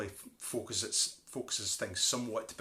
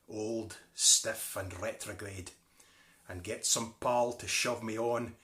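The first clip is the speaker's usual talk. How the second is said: measured, slow poetic reading; poem recitation; slower than usual. Acted. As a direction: recite it like a ballad.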